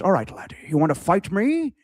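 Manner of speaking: put-on Scottish accent, rising on the challenge; put-on Scottish film-star accent; Connery. Challenging a laddie to a shin-kicking fight, Connery-style Scottish accent. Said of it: "I could do a Connery accent".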